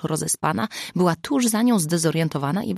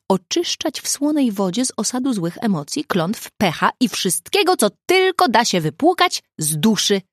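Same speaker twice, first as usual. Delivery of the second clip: enthusiastic; 5 semitones higher, 4 dB louder than usual. A narrator's reading. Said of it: "odparła z entuzjazmem Zuza".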